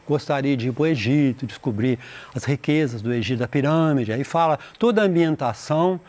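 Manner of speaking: ordinary delivery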